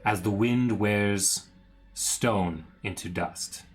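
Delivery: slow, solemn villain monologue; dramatic reading. Acted. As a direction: read it like an old curse. Reads Strahd's journal slowly.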